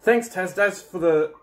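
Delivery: speaking through a scorched throat; strained talk, mouth on fire; mouth burning from spicy food. Real, not acted. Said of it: "for the burning throat and burning mouth".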